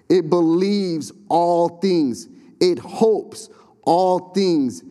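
slow solemn scripture reading. Acted. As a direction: read it slowly like holy writ. Reads scripture aloud, solemn.

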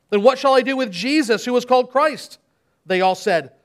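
dramatic Bible reading with voiced crowds; scripture reading. Pastor reads the Passion to the church, dramatic reading. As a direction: read the Passion aloud to the congregation.

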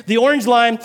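normal talking voice

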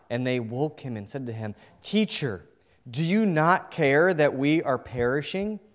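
measured, dramatic reading of the gospel; scripture reading. Acted. Preacher reading scripture to the congregation, dramatic. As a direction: read the storm passage to the church. Reads the gospel passage aloud.

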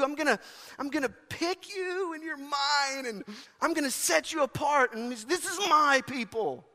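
loud, high, driving sermon delivery; hammering the room with it; full-force preaching. Real, not acted. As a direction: preach it to the rafters.

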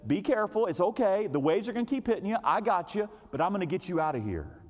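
lightly voiced soothing rescuer; calm reassurance. Surfer promising to get them out, gently reassuring. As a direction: reassure them through the waves. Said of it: "He just so calm".

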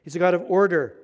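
loud, lightly imitated German accent; Clemens's German accent. Pastor quoting his orderly roommate, loud German accent. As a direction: insist firmly in a mock German accent. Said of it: "Clemens saying".

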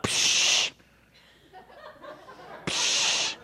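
soft breathy dismissive psh. Retold or imitated. Jesus brushing off their politics with a soft psh. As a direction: brush the whole idea off. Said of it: "was kinda like".

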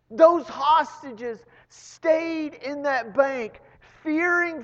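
high, loud, slow preaching with a catch of tears; full-force preaching. Acted. Preacher tells the congregation the robbers got away, soaring and loud. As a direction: drive the climax home to the congregation, slow and soaring. Preacher builds the story's climax.

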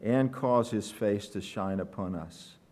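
measured, solemn psalm reading; scripture reading. Acted. Pastor reading the psalm to the congregation, scripture reading. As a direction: read it out with weighty pauses.

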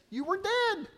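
high, mock-startled cry of disbelief; a lightly voiced heroine gasping it out high; shocked disbelief. Heroine stunned to see her love alive, high cry.

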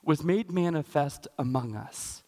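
slow, measured verse reading; solemn, spaced-out Bible reading; scripture reading. Acted. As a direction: read the verse out deliberately, with pauses.

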